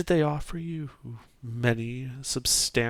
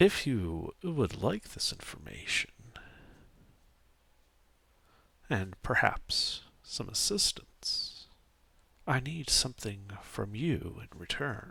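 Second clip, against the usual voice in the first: otherworldly, ethereal, musical lilting voice; 3 semitones lower, 4 dB quieter than usual. Narrating a figure who appears in a dream void, speaking with an ethereal lilt. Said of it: "speaking with a sort of like almost an ethereal lilt to her voice".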